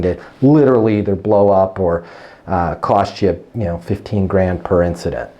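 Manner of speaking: steady pilot calm, nothing rattles you; cool, calm, collected. Shown as a demonstration. Natalie calls a client about fuel, cool and calm. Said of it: "She's cool, she's calm".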